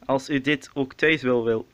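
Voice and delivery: robotic instruction voice. Acted. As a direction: recite it like a robot. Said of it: "stop maar zoals te praten als een robot".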